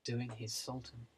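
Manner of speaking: mock grand announcement; announcer voice. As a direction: announce him like a compere. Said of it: "Ladies and gentlemen".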